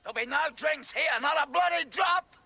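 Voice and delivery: slap the idea down hard; indignant outburst. Acted. Coach forbidding the players any drink, high indignant shout.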